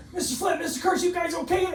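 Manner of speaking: imitating a concerned principal shouting through the door; mock worried call. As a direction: call out like the principal checking on them.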